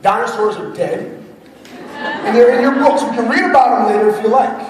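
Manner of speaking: lightly voiced stern dad shutting down play; dad correcting his son's make-believe; old dismissive self. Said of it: his old self "would have told him".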